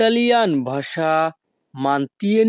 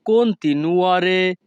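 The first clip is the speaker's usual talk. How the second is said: slow and a bit higher; slow Italian model word; 4 semitones higher, much slower than usual. Shown as a demonstration. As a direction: repeat it carefully for the class. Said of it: "Italian ভাষা".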